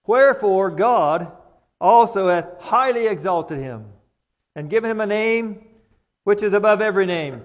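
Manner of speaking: measured, solemn Bible reading; formal pulpit reading; scripture reading. Acted. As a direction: read the passage to the congregation with weight. Reading scripture aloud in church.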